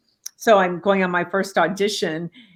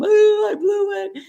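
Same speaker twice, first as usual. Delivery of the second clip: disappointed; 14 semitones higher, 6 dB louder, slower than usual. Retold or imitated. Retells despair after audition.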